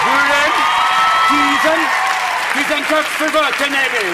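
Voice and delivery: sing-song fake Swedish babble; mock Swedish.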